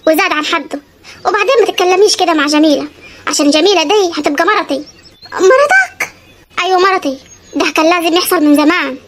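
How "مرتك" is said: high, stunned echo of the word; can't believe what she heard; stunned wife; shocked disbelief. Acted. Husband announces new wife.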